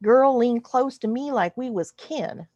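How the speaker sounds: hammed-up bad Texas drawl for a Western-style narrator; fake Texas drawl. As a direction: tell it like a TV cowboy with a Texas twang. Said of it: "I'm going to read it in that drawl".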